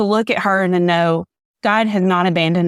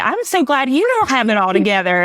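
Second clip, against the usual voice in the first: laughing; 5 semitones higher than usual. Retold or imitated. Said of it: "And I laughed and I was like".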